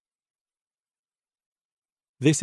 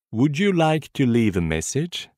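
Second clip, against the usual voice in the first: Would you like to leave a message? drawn out slowly; slow repetition. Shown as a demonstration. Teacher slowly repeating the phrase for learners to copy. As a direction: spell it out slowly for the class. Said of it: "Écoutez et répétez après moi".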